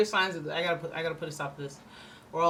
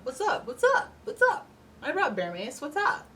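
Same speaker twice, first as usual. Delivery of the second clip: rising, louder, higher what's up; egging someone on, louder each time; escalating high taunt; 9 semitones higher, 4 dB louder than usual. Retold or imitated. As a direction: pitch climbing taunt. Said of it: "Being like".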